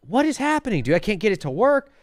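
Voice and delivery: high-pitched, baffled complaint; exasperated disbelief. Retold or imitated. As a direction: throw the question up at the ceiling. Quoting own frustration at computer.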